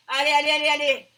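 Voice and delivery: allez lancés fort et soutenus; encouragement crié. Real, not acted. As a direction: pousse le groupe à pleine voix. Coach pushes class hard. (crier pour motiver la classe)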